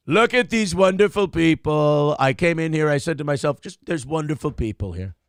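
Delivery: lightly voiced Trump, saying a phrase then repeating it back; a hint of Trump, circling back to his own words; Trump impression. Shown as a demonstration. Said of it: "that's how you start your Trump impression".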